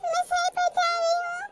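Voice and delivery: tearful recognition. Acted. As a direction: voice catching with tears. Recognises lost loved one's voice.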